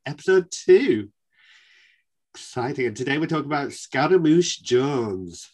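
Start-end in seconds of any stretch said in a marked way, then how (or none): 3.7-5.5 northern accent. Shown as a demonstration. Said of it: "as I like to say it in my northern accent".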